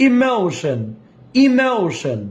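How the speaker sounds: ইমোশন with a gliding "ou" in the middle; ইমোশন with a falling ending; pronunciation drill. Shown as a demonstration. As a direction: model ইমোশন slowly for repetition. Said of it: "উচ্চারণটা আমার সাথে বলেন".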